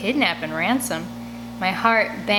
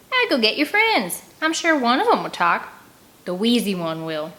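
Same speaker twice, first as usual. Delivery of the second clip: sneer; 3 semitones higher than usual. Acted. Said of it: "Mary Jo sneers".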